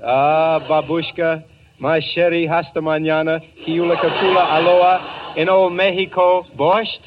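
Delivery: mock-Russian word salad, hammed up; string random foreign words like real Russian; fake Russian gibberish. Manager fakes Russian for the headmistress, in a hammed-up mock gibberish. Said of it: "saying something in Russian".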